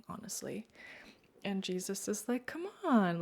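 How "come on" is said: higher, lifted coaxing call; nice, inviting. Retold or imitated. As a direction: sweetly beckon someone along, acted. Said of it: "like, so nice, inviting me".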